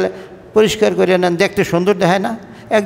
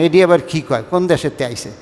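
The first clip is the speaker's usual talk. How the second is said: bewildered listener; 5 semitones lower than usual. Retold or imitated. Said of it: "হা করে চাইয়ে থাকবেন".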